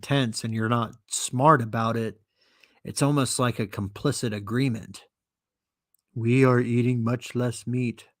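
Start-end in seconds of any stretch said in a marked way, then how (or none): 6.1-8.1 droning, monotone zombie chant; lightly voiced zombie monotone. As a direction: recite it evenly like mindless zombies. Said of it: "says the zombies".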